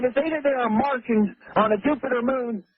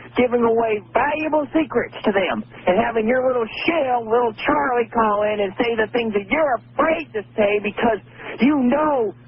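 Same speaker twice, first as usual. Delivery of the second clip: crying rant. Real, not acted. Caller crying out in anger.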